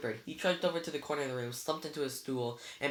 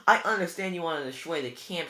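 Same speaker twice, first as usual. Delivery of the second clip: louder and higher, angry; yelling; 4 semitones higher, 7 dB louder than usual. A narrator's reading. Annabeth yelling at Luke over the camp, angry. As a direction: shout her accusation. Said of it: "she yelled".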